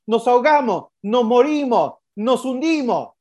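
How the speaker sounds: high panicked cry of drowning men; a hint of terror, mostly mimed; mock panicked shout. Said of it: "A Jesús le gritaron".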